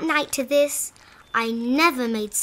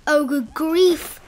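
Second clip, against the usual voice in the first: groaned; 2 semitones higher, slower than usual. Acted. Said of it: "I groaned".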